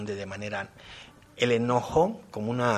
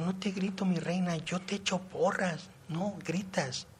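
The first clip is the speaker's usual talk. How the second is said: father's protest; 7 semitones higher than usual. Retold or imitated. Father's retold protest to daughter.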